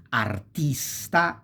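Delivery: artista slowly, with a long, weighted tis; stress on second-to-last. Shown as a demonstration. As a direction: lean into ar-TIS-ta. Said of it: "falls on the second to last syllable".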